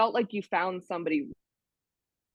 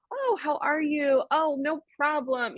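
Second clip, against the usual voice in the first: high, slow, gushing imitation; mock friendliness; 7 semitones higher than usual. Imitating a local giving directions, mock friendly. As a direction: put on an over-friendly, drawn-out welcome. Mimicking overly friendly reply to strangers.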